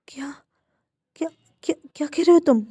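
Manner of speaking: stunned, repeating the question; aunt reacts in shock to what her nephew reveals; shocked disbelief. A narrator's reading. Aunt hears of forced kiss.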